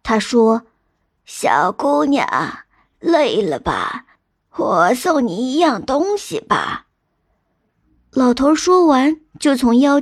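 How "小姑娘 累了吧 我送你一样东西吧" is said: put-on slow, kindly old man voice; white-bearded old man. Dream elder offering a tired girl a gift, slow old man voice. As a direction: draw it out like an unhurried old sage. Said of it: "梦见一个白胡子老头儿笑眯眯地走过来".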